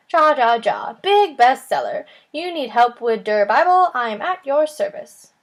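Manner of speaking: put-on loud, hearty German accent; a booming, jolly German accent; Gutenberg's German accent. A narrator's reading. Gutenberg offers the kids help, loud German accent. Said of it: "a man with a thick German accent".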